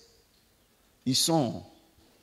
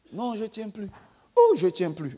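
mock pained plea; 6 semitones higher than usual. Possessed person cries in pain.

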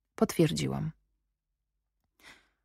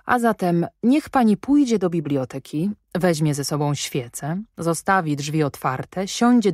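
courteous, rising on pójdzie; polite request. Acted. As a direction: soften the order into a request. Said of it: "chciałem powiedzieć, niech pani będzie łaskawa".

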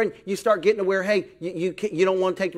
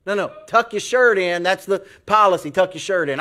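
firm, louder repeated order; insistent manager; 6 dB louder than usual. Acted. Manager telling worker to tuck shirt in, insistent. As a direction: lay down the rule, mildly exasperated.

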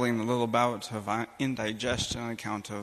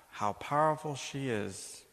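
hushed wonder at Mary's power; slow reverent praise; 3 semitones higher, slower than usual. Real, not acted. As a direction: savour "powerful" slowly and reverently. Repeated praise, slow falling.

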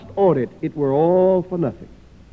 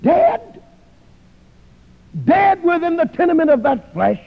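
shocked disbelief; 2 semitones higher than usual. Acted. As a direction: voice Christ's horror as he asks if the soul is dead. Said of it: "He looks down in shock and he says".

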